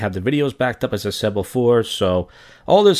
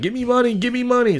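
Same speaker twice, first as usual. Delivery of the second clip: much higher whiny mock voice, repeated; mocking parents; 13 semitones higher than usual. Mimicking his parents demanding money, high whiny mockery. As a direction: nag like a greedy cartoon parent. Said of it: "they're like".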